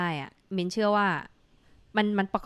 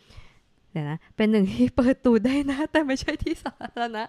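mock voice, higher and louder; playful read-out; 5 semitones higher, 4 dB louder than usual. Host reads a listener's cheeky comment in a playful put-on voice.

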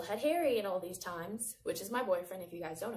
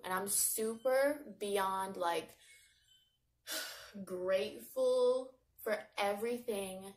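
heartfelt; slower than usual. Real, not acted. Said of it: "I'm so, so grateful".

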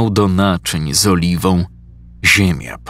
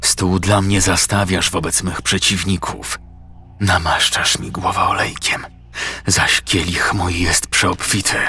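prayer. A narrator's reading. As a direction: recite the psalm under the breath.

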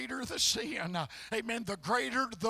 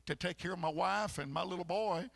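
despairing plea; 3 semitones lower, 3 dB quieter than usual. Retold or imitated. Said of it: "And I said".

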